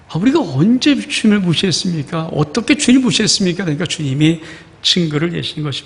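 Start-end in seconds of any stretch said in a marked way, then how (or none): 0.1-3.6 indignant denial. Retold or imitated. People protesting to God.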